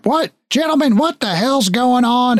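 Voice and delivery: high-pitched, startled head of the house; indignant papa. Acted. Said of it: "You hear from the living room".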